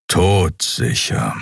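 Todsicher with Tod hit sharp and slow; stress on Tod. A narrator's reading. Keru growls Todsicher at the guard, Tod sharply stressed, slow. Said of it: "die erste Silbe scharf betonend".

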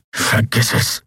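mild growled brush-off, half voiceless; wounded Kero brushing off her concern with a growl. Acted. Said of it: "knurrte er".

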